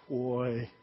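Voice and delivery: low, soft, stern warning from dad; one word that says you're in trouble. Retold or imitated. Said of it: "your dad just looks at you and just like".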